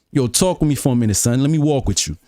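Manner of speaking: New York street-talk demo; New York accent. Shown as a demonstration. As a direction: round TALK and WALK like a New Yorker. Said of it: "If you wanna sound like you knew you from New York".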